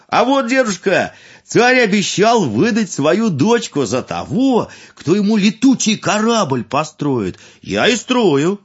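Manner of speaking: high, loud eager fool; eager young fool. Acted. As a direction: explain with simple pride. Fool explains.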